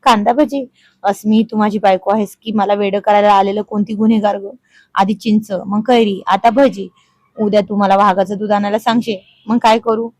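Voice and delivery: mock shout. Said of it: "ओरडला".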